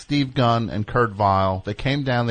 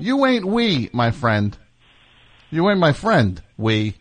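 higher, sassy street retort; mock tough; 3 semitones higher, slower than usual. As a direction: put the caller in his place.

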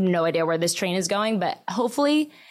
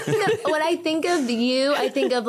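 talking through a laugh; giggly, words breaking into laughter; 7 semitones higher than usual. Real, not acted.

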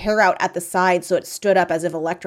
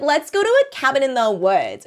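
higher, hammed-up proposal; eager suggestion; 7 semitones higher, 4 dB louder than usual. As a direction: pitch the idea high and keen. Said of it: "she's like".

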